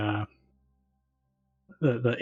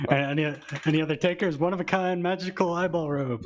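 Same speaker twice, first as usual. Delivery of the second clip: fast, pushy auctioneer patter; 6 semitones higher, faster than usual. Pretend. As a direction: sell it like an auction. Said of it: "I start going in an auction voice".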